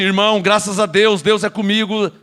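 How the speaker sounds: composed, grateful affirmation; confident thankfulness. Shown as a demonstration. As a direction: say it settled and assured. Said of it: "Não, fala assim".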